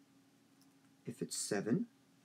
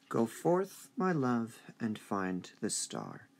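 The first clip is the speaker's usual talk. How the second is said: line read with rising stresses; teacher reading the example line aloud; slower than usual. Shown as a demonstration. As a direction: read it out, slowing at the end. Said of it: "do another sentence together".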